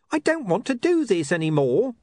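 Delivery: wailing. Acted. Charlie begging Mister Pin to quit. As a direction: whine like a scared man wanting out. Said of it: "Charlie wailed".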